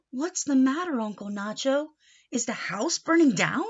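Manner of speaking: put-on mildly alarmed young niece; a hint of worried niece. Niece finds smoky house, lightly alarmed.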